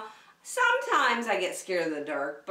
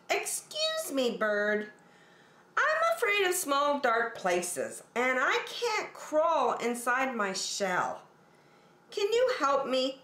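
much higher, pleading small-turtle voice; timid little turtle; 5 semitones higher than usual. Acted. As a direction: ask for help like a shy scared turtle. Franklin asks again.

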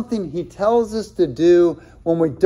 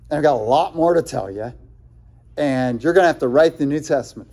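voicing Jesus. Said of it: "He says".

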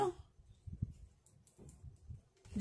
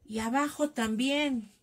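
drawn-out mock heckle, only mildly raised; retold shout; 2 semitones higher, slower than usual. Woman retells her reply to the wedding cheer, mild mock yell. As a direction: stretch it out like a cheeky reply called across a wedding. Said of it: "Yo les grito".

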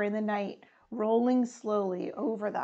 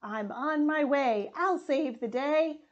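firefighters calling; 4 semitones higher than usual. Acted. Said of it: "The firefighters call".

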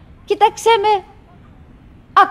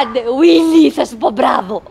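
louder, laughing urging; 5 dB louder than usual. Acted. Wife urging her husband on, laughing. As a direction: egg him on with a laugh.

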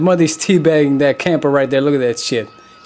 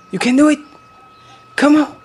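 cheering on; 11 semitones higher, faster than usual. Real, not acted. Calling out to the mother bear at the fence, cheering her on. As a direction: urge her on like a fan.

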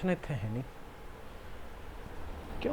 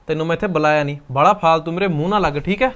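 louder, scolding her to back off; angry scolding; 6 dB louder than usual. Acted. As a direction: warn her off, hard and loud. Man scolds young woman in quarrel. (ਗੁੱਸੇ ਵਿੱਚ ਉੱਚੀ ਝਿੜਕ)

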